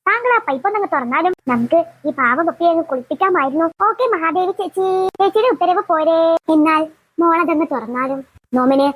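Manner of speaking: bow and scrape sarcastically to the bossy sister; sarcastic grand formal speech to elder sister; mock formal. Mock royal address to sister.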